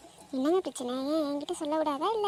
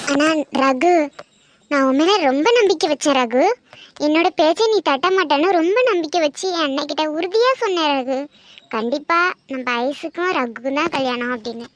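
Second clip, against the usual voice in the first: louder, wounded scolding of a trusted nephew; hurt reproach; 5 dB louder than usual. Acted. Aunt scolding Ragu for breaking her trust, loud and hurt. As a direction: let the disappointment push the voice up.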